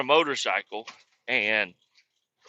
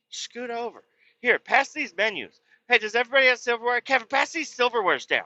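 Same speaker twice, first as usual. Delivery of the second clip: high-pitched bossy imitation; bossy nagging; 10 semitones higher than usual. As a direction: reel off orders in a high voice. Retold bossing at the table.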